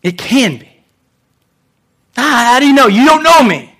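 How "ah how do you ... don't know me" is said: a mildly voiced skeptic pushing back, higher; doubting listener. Preacher voicing a doubter who says you don't know me, mild mock scoff. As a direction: scoff as the doubter who thinks nobody knows them.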